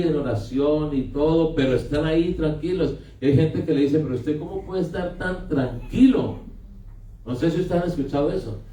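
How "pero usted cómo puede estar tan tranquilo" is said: higher, amazed disbelief; incredulous question. Retold or imitated. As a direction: ask how anyone can stay so calm. People asking the calm believer.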